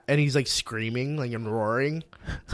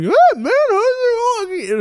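much higher, slow laid-back dude voice; Jeff Bridges impression; 6 dB louder, slower than usual. Joking to a friend about Jeff Bridges, laid-back dude voice. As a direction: drawl it out like a stoner surfer. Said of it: "like fucking Jeff Bridges".

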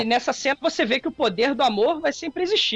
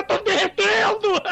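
slow, high wail of melting; hammed-up dying vampire; 7 semitones higher, slower than usual. Vampires melting under Jesus' light.

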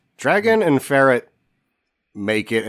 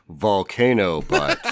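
slow; 4 semitones lower, slower than usual. Retold or imitated. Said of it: "She turns slowly to him and says".

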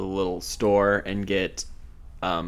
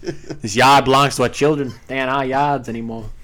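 mock-solemn Boston accent, r dropped; 3 semitones higher, 6 dB louder than usual. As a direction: say yard as yahd, Boston style. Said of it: "good word to say with a Boston accent".

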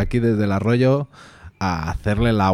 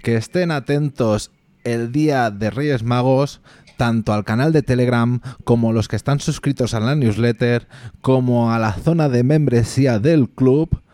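town crier; 3 semitones higher than usual. Acted. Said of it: "un aviso importante".

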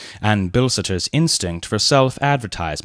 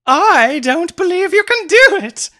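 high, louder taunting voice; provocative lady; 8 dB louder than usual. A narrator's reading. Mary daring Leonard from the conservatory, high taunt. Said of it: "laughed Mary provocatively".

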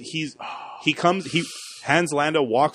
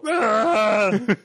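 imitated Wookiee howl; 7 semitones higher than usual. Imitates Chewbacca on the call.

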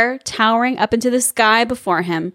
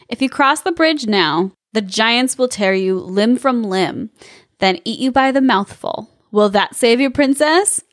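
sassy. Acted. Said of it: "He's all sassy too".

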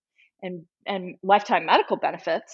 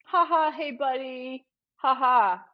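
imitated chummy chuckle, a little higher; put-on pally ha-ha; mock friendly laugh; 4 semitones higher than usual. Shown as a demonstration. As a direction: fake a buddy-to-buddy laugh. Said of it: "But it's not a, ... laugh".

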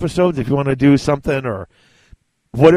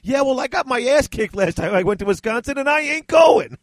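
gruff refusal quote; 10 semitones higher than usual. Retold or imitated. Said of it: "one of my favorite lines ever".

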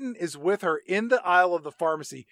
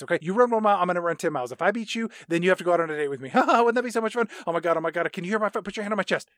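mock hyped-up rant; much faster than usual. Quentin high on epinephrine.

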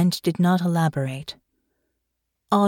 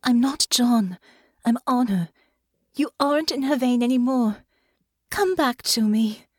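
higher-pitched, tender coaxing; gentle but urgent; 6 semitones higher than usual. A narrator's reading. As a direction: coax a dreamer back gently. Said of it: "making her voice gentler but no less urgent".

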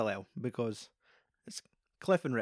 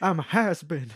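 louder and higher, on the verge of crying; tearful has-been; 4 semitones higher, 5 dB louder than usual. Retold or imitated. Rick tells Cliff he's finished, mock tearful. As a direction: wail it as self-pity. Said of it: "He's like".

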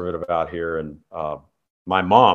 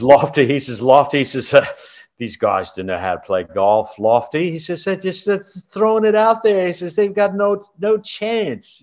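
imitating Elk; 9 semitones higher than usual. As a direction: mimic your old roommate's voice. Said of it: "That sounds like Elk".

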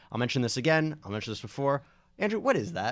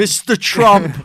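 loud, higher shout of the name; mock hearing shout; 8 semitones higher, 14 dB louder, slower than usual. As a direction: bellow his name across the hall. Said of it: "I could do that every, all day".

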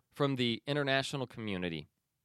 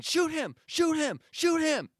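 high-pitched, louder mock yell of a father; retold shout; 4 dB louder than usual. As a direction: yell it like the father urging the soldier on. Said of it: "in the background going".

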